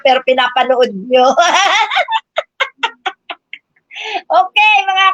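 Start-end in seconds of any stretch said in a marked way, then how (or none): 1.4-3.5 high taunting giggle; high mocking laugh. Real, not acted. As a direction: giggle in high, light mockery. Mocking viewers who watch anyway.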